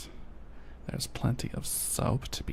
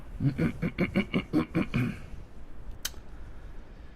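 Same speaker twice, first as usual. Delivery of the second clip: demon throat clear; 4 semitones higher than usual. Pretend. Chat asks for a demon voice, raspy throat clear. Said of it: "Say it like a demon".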